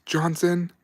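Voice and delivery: mock sergeant yell. Sergeant finds a private huffing exhaust, high slow angry yell. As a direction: bellow his name, then drag the question out slowly. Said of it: "our sergeant goes".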